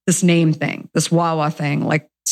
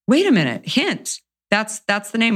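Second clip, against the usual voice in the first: eureka moment; 5 semitones higher than usual. Retold or imitated. Sudden idea for the name.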